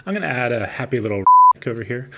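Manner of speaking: word censored by a bleep; a bleep covers the word. Real, not acted. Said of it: "you just got bleeped".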